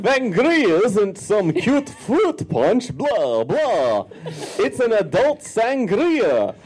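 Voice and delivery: The Count voice. Acted. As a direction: read it like the Sesame Street vampire. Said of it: "The Count".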